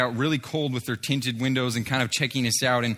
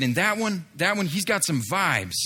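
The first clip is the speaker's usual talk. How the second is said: high-pitched imitation of an impressed man; mock amazement; 5 semitones higher than usual. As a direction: mimic someone excitedly singling a person out. Acted quote of amazed man pointing.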